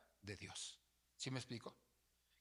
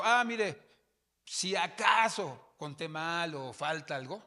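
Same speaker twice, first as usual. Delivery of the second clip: louder, slower earnest reply to the seller; raised, deliberate explanation; retold reply; 3 semitones higher, 8 dB louder, slower than usual. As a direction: speak up, reassuring but firm. Pastor retells his reply.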